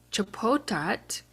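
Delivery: slow "Chapotat"; Chickasaw word. Shown as a demonstration. Teacher sounding out the subject word slowly. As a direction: draw out "Chapotat" syllable by syllable. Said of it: "our at ending here to say that this is the subject".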